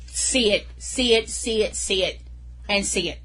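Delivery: breathless, panting between words; out of breath after a rant; gasping between phrases. Real, not acted. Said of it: "I'm out of breath".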